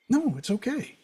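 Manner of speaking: soothing, high-pitched answer; light, comforting tone; gentle reassurance. Acted. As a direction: softly let the worrier off the hook. Reassuring the fretful inner voice.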